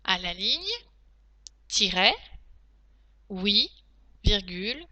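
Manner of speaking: steady reread of the dictation. Shown as a demonstration. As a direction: read it back for checking. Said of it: "je vais donc maintenant relire la dictée".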